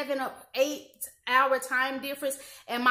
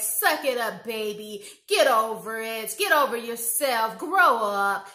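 louder, curt commands; harsh mother; 6 dB louder, slower than usual. Retold or imitated. Mother telling her hurt daughter to get over it, curtly and loudly. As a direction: bark it at the child to stop complaining. Mother dismissing child's pain.

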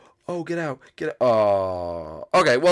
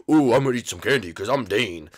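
Dane; 3 dB louder than usual. Acted. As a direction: play a silly candy-lover in mock imitation. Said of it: "and then he said".

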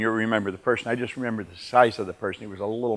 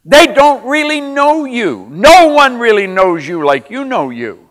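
preaching at full force, much louder and higher; fiery preaching; 10 semitones higher, 12 dB louder, slower than usual. Acted. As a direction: drive it home to the crowd like a revival preacher. Loud motivational preaching to audience.

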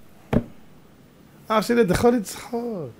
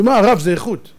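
mild protest; 2 semitones higher, 5 dB louder than usual. Acted. Acted customer's first defence.

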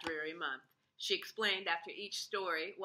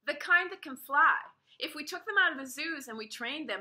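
higher, louder, eager; eager plan; 7 semitones higher, 6 dB louder than usual. A narrator's reading. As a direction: pitch the plan excitedly. Ada explaining her plan.

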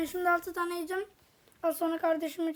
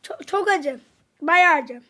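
loud spicy reaction; 7 dB louder, slower than usual. Real, not acted. Burning from spicy chips.

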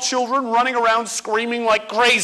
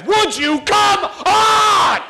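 put-on impatient kid; 4 semitones higher than usual. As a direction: hurry your classmates into line. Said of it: "You would be losing it on your friends".

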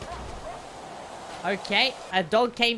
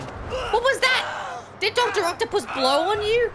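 shocked disbelief; 9 semitones higher than usual. Real, not acted. Gamer stunned as Spider-Man flies off, high squeal.

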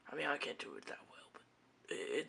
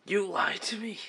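indignant; 6 dB louder than usual. Acted. Betrayed friend confronts liar.

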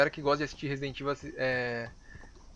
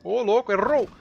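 panicking gamer; 5 semitones higher, 5 dB louder than usual. Real, not acted. Frantic boss fight.

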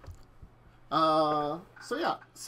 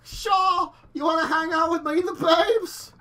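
surfer dude voice; 12 semitones higher, 8 dB louder than usual. Acted. GM voices surfer yacht owner.

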